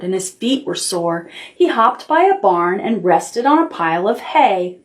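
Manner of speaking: lightly voiced picture book reading; reading to children. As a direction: read it gently, like bedtime.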